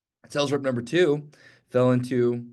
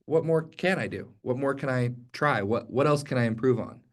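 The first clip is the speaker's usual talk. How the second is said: "What more can I do?" asked eagerly, stress on "can"; positive eager. Shown as a demonstration. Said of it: "that second mentality".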